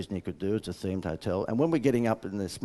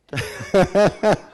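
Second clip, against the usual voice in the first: loud, high burst of laughter; 9 semitones higher, 8 dB louder than usual. Real, not acted. Laughs at the lighting mishap.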